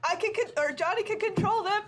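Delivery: laughing through the words. Real, not acted. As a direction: talk while cracking up. Player bursts out laughing.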